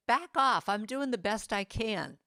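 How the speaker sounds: a touch of defiance; firm pushback. Shown as a demonstration. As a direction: stand up to the critic. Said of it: "what would it look like if you said".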